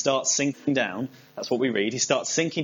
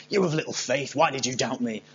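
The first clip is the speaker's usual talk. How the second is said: mildly stern reproach, no real shout; mock scolding. Jesus rebuking Peter for doubting, mildly scolding. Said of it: "rather than shouting at Peter saying".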